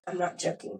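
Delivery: composed retold reply; so calm. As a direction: say it softly with no alarm at all. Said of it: "I'm just staying so calm".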